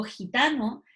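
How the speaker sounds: "gitano" with the g as a throaty Spanish j; "gitano" opening on a strong fricative g. Shown as a demonstration. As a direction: say "gitano" as khi-TA-no. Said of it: "Suena fuerte cuando yo digo".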